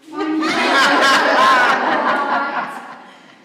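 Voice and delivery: loud, real belly laugh; big laugh. Real, not acted. Teacher laughing at her own story, loud and real. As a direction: let a full laugh burst out.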